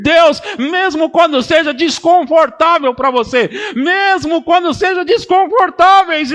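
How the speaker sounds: shouted, high preacher's climax; preaching at full force. Acted. Pastor provoking the church to follow God even when uncomfortable, shouted and high.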